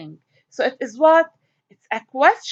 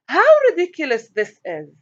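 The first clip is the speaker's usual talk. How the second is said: exclamation read; 3 semitones higher than usual. Shown as a demonstration. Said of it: "here I'm not asking a question".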